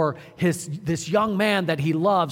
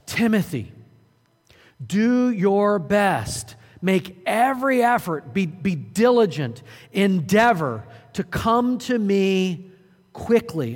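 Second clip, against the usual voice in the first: a pressing, forceful preacher's call, louder and drawn out; urgent apostle's plea; 3 semitones higher, 4 dB louder than usual. Retold or imitated. Paul urging Timothy to come quickly, forceful and drawn out. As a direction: command him to come, hard and deliberate. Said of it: "But notice what he says".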